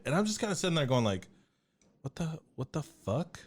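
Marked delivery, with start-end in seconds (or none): 2.0-3.4 stunned disbelief. Retold or imitated. Stunned after hearing the crash.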